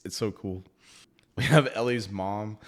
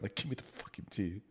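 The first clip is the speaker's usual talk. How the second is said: whisper; 11 dB quieter than usual. Real, not acted. Craving the aftermath.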